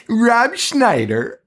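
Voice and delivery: high, drawn-out movie trailer voice; trailer announcer parody. Retold or imitated. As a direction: stretch the name like a spoof trailer announcer. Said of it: "the South Park Rob Schneider trailers".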